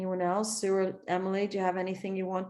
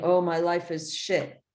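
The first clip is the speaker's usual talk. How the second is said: slow, defeated grumble; gloomy complaint. Shown as a demonstration. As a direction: say it like life is hopeless. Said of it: "Not ma-, saying".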